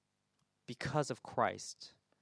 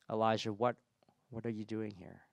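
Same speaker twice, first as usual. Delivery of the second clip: gentle. Acted. God comes like a father to his child, gentle. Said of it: "just comes gently and says".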